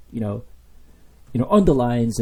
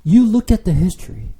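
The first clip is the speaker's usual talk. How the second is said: raised, higher reproach; God's reproach; 5 semitones higher, 4 dB louder than usual. Acted. Preacher voicing God to his people, raised reproach. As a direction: remind them what he did.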